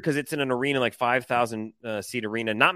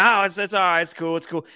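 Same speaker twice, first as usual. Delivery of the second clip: high, loud start easing off; retold brush-off; 6 semitones higher, 4 dB louder than usual. Upset fan brushing off an apology, imitated strained reassurance. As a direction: imitate someone insisting it's fine.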